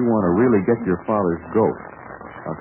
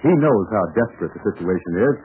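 steady storyteller's voice leading into the next scene; radio drama narration. A narrator's reading. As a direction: set the scene like an old radio serial narrator.

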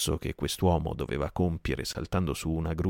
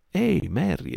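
much higher, louder call; exclaiming; 11 semitones higher, 4 dB louder than usual. Acted. Silver calls out to Merry, loud exclamation. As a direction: call him out sharply. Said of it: "esclamò Silver".

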